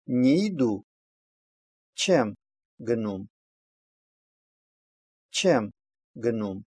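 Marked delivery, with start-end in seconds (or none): 1.9-3.3 careful demo with the weight on "Чем"; stress on auxiliary verb. Shown as a demonstration. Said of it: "ударение ставится на вспомогательный глагол". 5.3-6.6 careful demo with the weight on "Чем"; stress on auxiliary verb. Shown as a demonstration. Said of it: "ударение ставится на вспомогательный глагол".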